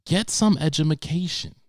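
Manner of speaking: edumacation said high and loud with an extra syllable; mock edumacation. Real, not acted. Comic scolding the kid with a jokey edumacation. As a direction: stress the made-up ma in edumacation. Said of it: "jokey mispronounced word".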